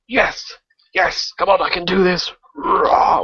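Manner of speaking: pumped-up cheer. Retold or imitated. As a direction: psych yourself up in a mock cheer. Gamer psyching himself up mid-fight.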